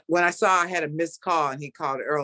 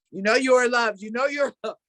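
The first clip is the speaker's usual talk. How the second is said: mantra pushed higher and louder; getting louder; 7 semitones higher than usual. Retold or imitated. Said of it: "I started getting louder".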